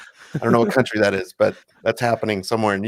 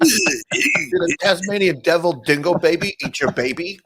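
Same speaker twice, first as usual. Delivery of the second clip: mock dramatic quote; 5 semitones higher than usual. Riffing on the Seinfeld line.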